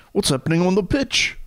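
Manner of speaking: put-on English Brighton accent, sports commentator. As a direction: ask it like a Brighton football fan. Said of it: "Do a Brighton accent".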